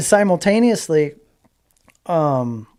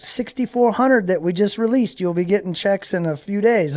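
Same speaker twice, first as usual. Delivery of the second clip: higher mimicked lady giving good news; imitated phone agent; 5 semitones higher than usual. Agent announces more checks to racer, lightly imitated higher voice. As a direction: lightly play the agent, voice lifted. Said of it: "and she goes".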